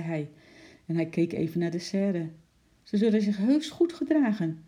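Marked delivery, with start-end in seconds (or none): 2.8-4.6 put-on high, insistent child's promise; calling out. A narrator's reading. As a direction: protest eagerly, pitched up. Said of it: "riep Lotje".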